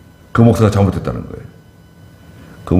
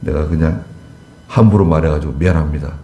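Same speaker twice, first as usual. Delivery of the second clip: humble apology; 5 semitones lower than usual. Shown as a demonstration. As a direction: apologise sincerely, head bowed.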